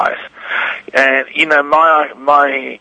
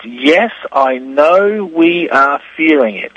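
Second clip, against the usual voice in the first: slow reading; 2 semitones higher, slower than usual. Shown as a demonstration. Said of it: "this says backwards".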